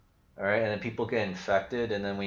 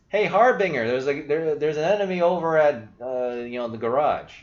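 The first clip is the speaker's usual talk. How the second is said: mock teen callout, higher and louder; imitating teenage kids; 5 semitones higher, 7 dB louder than usual. Mimicking teen teammates calling out his gamertag. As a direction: rattle it off like a kid on voice chat. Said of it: "how they pronounce my name".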